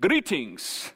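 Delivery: lightly hammed Scottish or Irish greeting; Scottish accent. Preacher amusing himself as the angel, mock Scottish accent. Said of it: "or Scottish accent".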